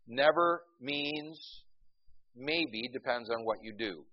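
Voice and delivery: mock the other side's idea of never, drawn out. Shown as a demonstration. Preacher parodying a doctrine he rejects, sarcastic. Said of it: "No, never means never".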